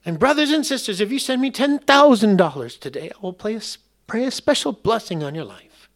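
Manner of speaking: high-pitched southern televangelist spoof; southern accent. Acted. TV preacher promises a blessing for money, mock southern accent. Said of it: "always have a southern accent".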